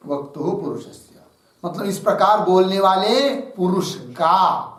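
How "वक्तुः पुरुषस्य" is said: "वक्तुः पुरुषस्य" दोबारा धीमे और नरम स्वर में; "वक्तुः पुरुषस्य" को धीरे, लगभग अपने आप से दोहराएँ; दोहराकर लिखवाना. Shown as a demonstration. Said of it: "तस्य शब्द का अर्थ लिखिए". ("वक्तुः पुरुषस्य" को धीमे स्वर में दोहराकर लिखवाना)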